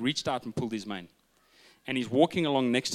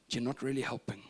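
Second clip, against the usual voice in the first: put-on hushed child; 5 dB quieter than usual. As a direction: quietly break it to dad. Son gently lets dad down.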